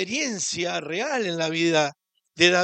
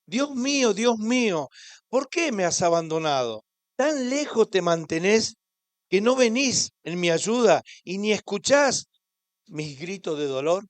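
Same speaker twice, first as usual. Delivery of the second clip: anguished psalm; 2 semitones higher, 3 dB louder than usual. Acted. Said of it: "en el versículo uno dice".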